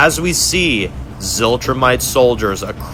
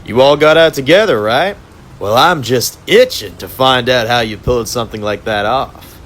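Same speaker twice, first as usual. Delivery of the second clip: gloating villain conductor. Acted. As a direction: purr over the trapped prisoners like a smug torturer.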